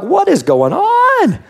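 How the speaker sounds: high, slow, shouted disbelief; mock outrage. Pastor reacting to Jesus' words, shouting in comic bewilderment. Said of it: "I'm like".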